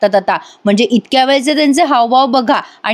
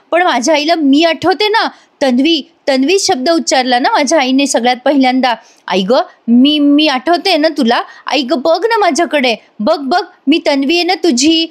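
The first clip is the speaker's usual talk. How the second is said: higher-pitched, urgent daughter's plea; insistent pleading; 4 semitones higher than usual. Retold or imitated. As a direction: beg to be recognised, voice lifted. Acted daughter pleading with mother. (आर्जवी, आग्रही स्वर)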